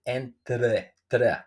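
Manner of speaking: entre with the tongue touching the front teeth; careful slow "tre"; tongue between teeth. Shown as a demonstration. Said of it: "put your tongue in the middle of the teeth".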